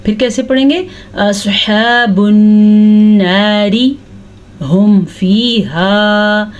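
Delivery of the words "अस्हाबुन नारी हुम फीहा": नारी with a light thin ra, running on into हुम फीहा; thin ra, no stop. Shown as a demonstration. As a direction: carry on without pausing, ra light. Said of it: "ये वक्फ ना करने की वजह से पढ़ेंगे". (बिना रुके नारी, रॉ बारीक)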